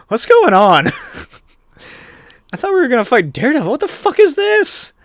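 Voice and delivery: high, squeaky mock bafflement, laughing; baffled goons. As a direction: shoot up high as a confused thug. Wild Boys baffled, acted out.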